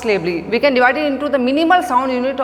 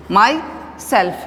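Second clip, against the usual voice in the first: "myself" split, with weight on SELF; stress on SELF; 3 semitones lower than usual. Shown as a demonstration. Teacher demonstrating the stress mark, stress on SELF. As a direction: say "my", pause, then a distinct "self". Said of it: "We put the stress mark on the word".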